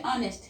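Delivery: honest begun on the O, no H sound; silent H. Shown as a demonstration. Teacher showing how honest is read, silent H. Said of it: "H is silent here".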